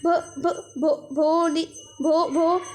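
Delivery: broken stammer on the name; shy girl stammering; stuttering. Retold or imitated. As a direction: try and fail on the first syllable. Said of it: "बताने की कोशिश करती है".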